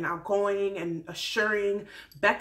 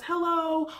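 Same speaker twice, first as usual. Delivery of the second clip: perky hello; 8 semitones higher than usual. Retold or imitated. Becca greeting the family, high and perky. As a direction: chirp it brightly. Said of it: "every time she hugged someone".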